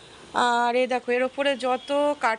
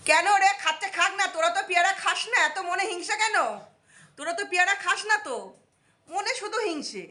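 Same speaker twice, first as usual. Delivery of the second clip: scolding; 5 semitones higher than usual. Real, not acted. Scolding the birds that screech.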